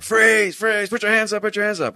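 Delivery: high, urgent cop command; acted police shout. Cop bursting in on a couple in bed, acted urgent shout. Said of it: "he's like".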